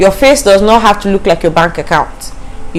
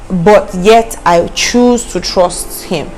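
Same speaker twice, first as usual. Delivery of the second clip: slow, sincere declaration; much slower than usual. Shown as a demonstration. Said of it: "you know".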